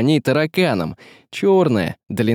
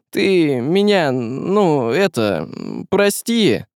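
hesitant, fumbling apology with pauses; halting apology; 4 semitones higher, slower than usual. Acted. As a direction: stumble towards saying sorry.

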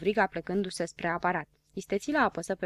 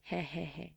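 soft, ironic little chuckle; chicotit ironic; 2 semitones lower, 11 dB quieter than usual. A narrator's reading. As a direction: chuckle quietly as an ironic character. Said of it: "apăru o expresie ironică". (chicotit ironic, încet)

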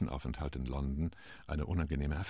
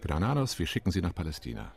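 raising a toast, calling out; 3 dB louder than usual. Acted. Chilean ambassador lifts his glass to Granados, calling out loudly and fast. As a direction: hail your colleague over the glass, quick and bright. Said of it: "hob gleich sein Glas und rief".

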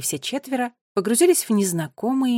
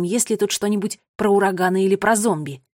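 plain reading voice

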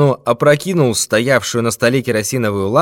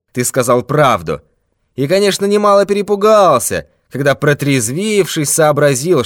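threatening thief; 3 semitones higher than usual. Acted. Thief threatens old man with death, menacing. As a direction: promise him his last hour.

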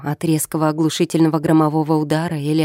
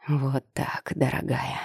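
smug; 2 semitones lower, 7 dB quieter than usual. A narrator's reading. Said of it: "Довольный скорой победой".

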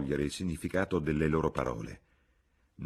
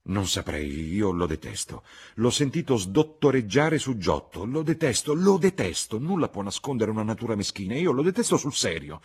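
high, loud tirade, building in heat; strident outburst; 7 semitones higher, 6 dB louder than usual. A narrator's reading. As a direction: work yourself up into vehement loathing. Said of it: "Che bisogno c'è che tu strilli a quel modo?".

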